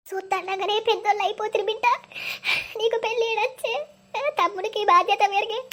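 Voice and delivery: put-on choked-up lament for the children; crying. Mother weeping over her children growing up. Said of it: "మీరు అస్సలు ఏడవకుర్రి".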